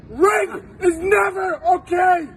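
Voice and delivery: slow, crying out with tears; tearful shout. Real, not acted. Emotional plea, cry heard.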